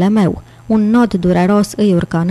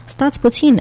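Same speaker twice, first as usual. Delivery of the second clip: sudden higher exclamation; exclaiming; 6 semitones higher than usual. Acted. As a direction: stop them mid-thought. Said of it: "exclamă el". (exclamație bruscă, mai sus)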